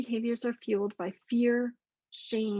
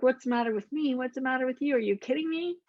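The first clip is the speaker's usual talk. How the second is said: defensive outburst; 3 semitones higher, faster than usual. Retold or imitated. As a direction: snap back as if personally attacked. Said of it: "Really defensive".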